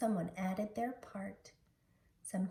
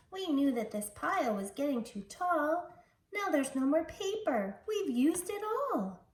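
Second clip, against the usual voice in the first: higher and louder distressed wail, slowing at the end; small cry; 5 semitones higher, 5 dB louder than usual. Acted. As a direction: cry out in dismay as the paper runs out. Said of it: "he heard a small cry".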